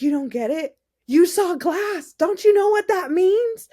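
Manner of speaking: can't believe she doesn't see it; incredulous friend. Retold or imitated. Friend amazed she missed the meaning, high and loud.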